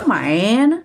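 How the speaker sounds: whispered curse under the breath; muttered curse. Retold or imitated. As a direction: hiss it to yourself. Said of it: "vừa chọt vừa nói nha". (thì thầm chửi thề)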